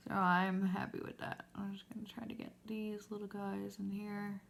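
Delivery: words through a stretched mascara mouth; whispering while doing mascara; applying mascara. Real, not acted. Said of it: "Again, mascara face, sorry".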